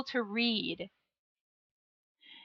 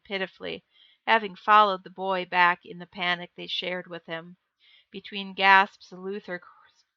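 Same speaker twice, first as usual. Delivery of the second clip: even, measured audiobook reading; story narration; 3 semitones lower than usual. A narrator's reading. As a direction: read the tale aloud in a steady, lower voice. Reads story narration aloud.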